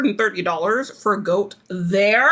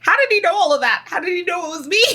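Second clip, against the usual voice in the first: amazed; 7 semitones higher, faster than usual. Retold or imitated. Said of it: "in her confessional, she's like".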